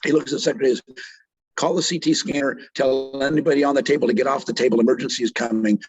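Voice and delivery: real choked-up retelling, halting between phrases. Real, not acted. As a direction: fight back tears while telling it. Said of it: "chokes me up when I remember it".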